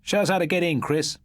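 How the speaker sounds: put-on boy speaking plainly where all whisper; normal voice breaking the hush. A narrator's reading. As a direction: say it out loud in the silence. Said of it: "said in his normal voice".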